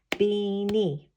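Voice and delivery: Beanie in two even, held beats; clapped out syllables. Shown as a demonstration. Teacher clapping out a word with children, syllable by syllable. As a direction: sound out both syllables of Beanie. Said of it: "Two claps".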